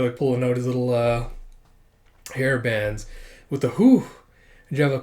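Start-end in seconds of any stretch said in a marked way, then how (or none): 3.7-4.1 quick rising, falling whoop of relief; high, loud "whew". Acted. Voices manga sound effect.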